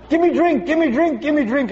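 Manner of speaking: a parched throat yelling for a drink. Acted. Throat yelling at you to give it a drink. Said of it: "Your throat starts yelling".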